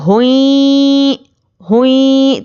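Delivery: हुई drawn out slowly, rounded and pushed forward; pesh vowel forward. Shown as a demonstration. Teacher demonstrating pesh to students: हुई forward, rounded. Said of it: "पेश की आवाज़ आगे को जाती है".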